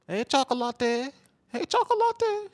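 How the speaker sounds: very high, slow cooing woman's voice; swooning woman. Retold or imitated. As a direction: call him sweetly like a smitten girl. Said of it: "They gonna be like".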